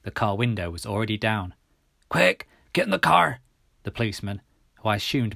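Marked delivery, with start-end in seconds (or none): 2.1-3.4 urgent policeman's shout. A narrator's reading. Policeman calling runner into car, urgent shout. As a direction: shout the order, higher and louder.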